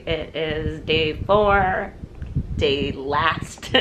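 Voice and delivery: hoarse, just-woken voice; croaky morning rasp. Real, not acted. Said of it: "sorry I sound like a croaky frog".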